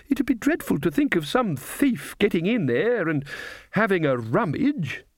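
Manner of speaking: put-on quavery high old lady; high old woman voice. A narrator's reading. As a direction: pitch it up like a frail old witch. Gamma Brevis speaks.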